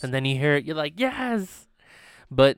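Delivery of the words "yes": loud, high burst of joy; a thrilled yell at finally finding it; excited triumph. Acted. Acting out finding the song online, excited.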